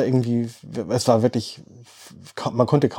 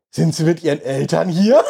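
laughing quote. Retold or imitated. Punchline quote of old man.

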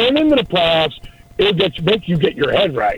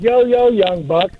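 hearty greeting; 6 semitones higher than usual. Retold or imitated. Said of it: "And I was like".

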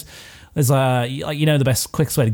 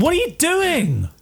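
slow, much higher outraged question; high indignant protest; 13 semitones higher, slower than usual. Acted. Doctor protests the monk whacking his ship, high and slow. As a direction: protest the attack, high and drawn out.

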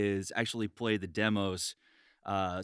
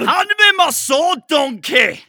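high, loud, slow bellowed demand; hammed-up shouting impression; mock shout; 18 dB louder, slower than usual. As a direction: roar it up high at a donkey. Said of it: "That's so good".

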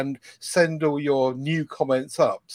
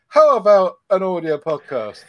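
louder, higher-pitched pitch of an idea; eager suggestion; 5 semitones higher, 8 dB louder than usual. Retold or imitated. Suggesting a new show to Steve, eagerly. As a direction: float the idea brightly, voice lifted.

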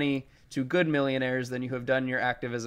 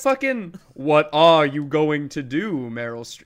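put-on slow, old-timey Mid-Atlantic accent; mocking a hammy Mid-Atlantic movie accent; 6 dB louder, slower than usual. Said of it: "Tom Hanks's shitty Mid-Atlantic accent".

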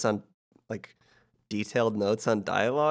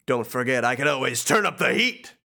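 Hades voice; 2 semitones higher than usual. Acted. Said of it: "Hades voice".

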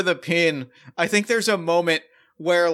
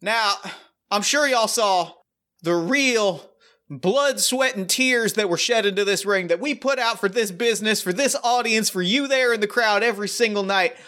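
raised country announcer voice; cowboy accent; 4 semitones higher than usual. Acted. Tex breaking the news of the injury in a cowboy accent. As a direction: work the crowd like a folksy ring announcer. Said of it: "immediately the accent turns on".

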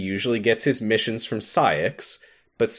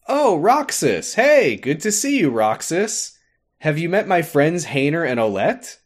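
cheery Pence; 6 semitones higher than usual. Retold or imitated. Pence greeting Roxas, hammed-up cheery voice. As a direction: play Pence as eager and sunny. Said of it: "And Pence says".

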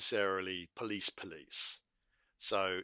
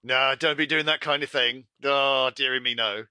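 mild scolding; 3 semitones higher, 8 dB louder than usual. Pretend. Lenient warning, mocking mildness.

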